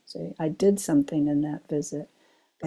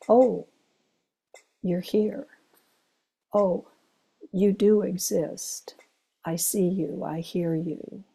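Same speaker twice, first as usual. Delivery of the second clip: tender seeing. Shown as a demonstration. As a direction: gently let them know you see them. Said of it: "Just say".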